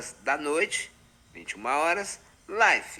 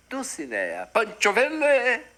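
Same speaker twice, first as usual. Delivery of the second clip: whisper; 11 semitones higher, 5 dB louder than usual. Acted. Whispered love name.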